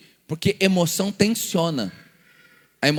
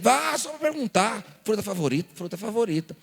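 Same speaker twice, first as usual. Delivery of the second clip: puzzled repeating; 2 semitones higher, 4 dB quieter than usual. Retold or imitated. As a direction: mull it over like it makes no sense.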